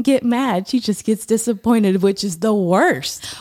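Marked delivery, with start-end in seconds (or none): 2.0-3.3 slow hushed whisper. Real, not acted. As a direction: breathe it out, dreading it. Dreading mom's disappointment.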